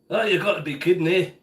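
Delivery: put-on light Scottish accent; a touch of Scottish burr. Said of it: "I'll slip into my Scottish accent".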